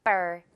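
housekeeper ending in a tight, airless per; tense unaspirated p. Shown as a demonstration. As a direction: say the per of housekeeper like a light ber. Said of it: "선생님 발음 어때요?".

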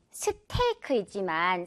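스테이크 in full Korean syllables with an airy t; Korean-style steak. Shown as a demonstration. Teacher showing the Korean habit, Korean-style 스테이크. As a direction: say 스테이크 the Korean way, vowel after s and k. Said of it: "한국식 발음으로는".

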